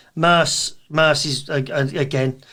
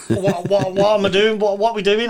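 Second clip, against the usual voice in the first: flustered owner; 4 semitones higher, 4 dB louder than usual. Retold or imitated. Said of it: "The owner was like".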